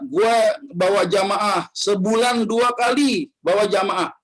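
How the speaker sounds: bragging quote. Retold or imitated. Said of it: "Gedek orang dengernya".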